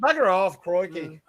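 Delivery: put-on redneck Australian accent. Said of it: "He'll talk like a redneck".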